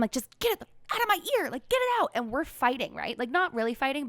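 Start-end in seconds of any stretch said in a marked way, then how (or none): 0.1-2.1 replaying a stressed snap at her mother in a higher voice; retold yelling. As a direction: daughter retelling how she yelled at her mom before surgery, high mock yell. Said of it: "So I'm yelling at her".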